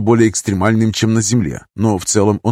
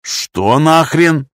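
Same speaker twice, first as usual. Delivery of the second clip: shocked; 5 semitones higher, much slower than usual. Acted. Coffee sprays in his face.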